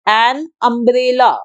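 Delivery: an umbrella drawn out slowly, starting with a clear short uh; slow teaching demo. Shown as a demonstration. Teacher modelling the vowel sound for students, slow. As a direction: say an umbrella very slowly so they hear the uh. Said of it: "उसकी sound होती है अ".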